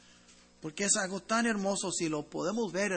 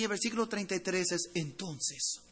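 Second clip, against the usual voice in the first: "entonces" slowed right down; stress on entonces. Shown as a demonstration. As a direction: lean hard on "entonces". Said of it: "la palabra muy importante aquí".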